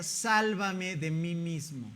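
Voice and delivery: each word of "Sálvame de mí mismo" drawn out slowly; slow title read. Shown as a demonstration. Pastor quoting the rocker's book title, slowly. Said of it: "lo tituló así".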